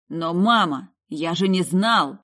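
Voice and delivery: crying out. Acted. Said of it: "перешёл на крик".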